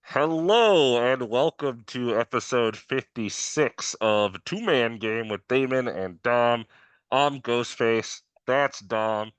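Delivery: talking through a Halloween mask; words dulled behind a mask; muffled through mask. Real, not acted. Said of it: "If I sound a little muffled".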